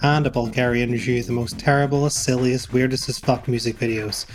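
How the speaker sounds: upbeat show host read; podcast intro. Acted. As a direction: announce the show brightly.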